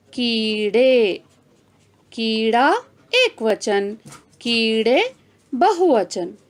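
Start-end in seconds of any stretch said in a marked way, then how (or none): 0.1-1.2 slow demo word. Shown as a demonstration. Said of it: "इसका बहुवचन है".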